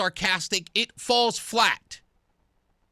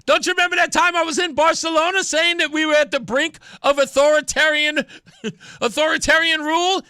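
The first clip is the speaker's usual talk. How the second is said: higher, hammed-up incredulous questioning; mocking Chris Murphy; 5 semitones higher, 3 dB louder, faster than usual. Host mimics senator recalling his Barcelona speech, mock incredulity. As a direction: build a mock-indignant reminder. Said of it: "I'm Chris Murphy, Mister Sarcasm".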